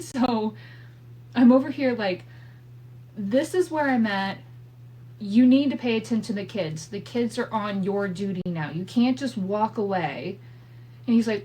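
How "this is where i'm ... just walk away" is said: raised, insistent lecture; telling husband the kids are his duty now; firm scolding. Retold or imitated.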